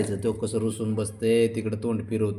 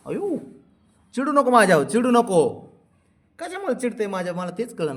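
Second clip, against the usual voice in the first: high, louder pleading; 11 semitones higher, 4 dB louder than usual. Acted. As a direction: beg him not to sulk. Pleading with sulking pet. (उंच आवाजात लाडिक विनवणी)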